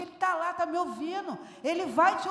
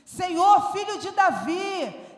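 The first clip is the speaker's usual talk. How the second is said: louder first call for the master; crying out; 3 semitones higher, 5 dB louder, slower than usual. Acted. The woman shouting to Jesus for his attention, loud. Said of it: "ela começou a gritar".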